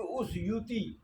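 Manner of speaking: اوسیوطی said slowly to show it is heavy; heavy word demo. Shown as a demonstration. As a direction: lean on اوسیوطی, slow and heavy. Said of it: "یہ کلمہ ثقیل ہے".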